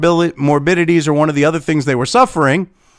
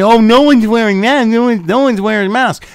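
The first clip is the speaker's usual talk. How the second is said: high, loud mocking whine; mock alarm; 6 semitones higher, 4 dB louder than usual. YouTuber mimicking media claims about unmasked crowds, in mock alarm. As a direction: parody a panicked complaint.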